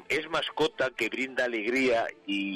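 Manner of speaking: quoting the song lyric through real laughter; can't get the line out for laughing; laughing while quoting. Real, not acted. Radio host cracking up quoting the song's lyric, laughing. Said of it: "es que me hace mucha gracia".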